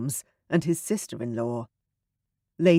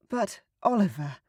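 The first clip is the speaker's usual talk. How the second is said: put-on higher, quicker young woman; a hint of Sarah's worried voice; lightly voiced Sarah; 6 semitones higher, faster than usual. Sarah to Oliver, lightly voiced worry.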